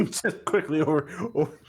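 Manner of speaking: high, loud laughing rush. Real, not acted. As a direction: giggle through it. Player laughing while describing.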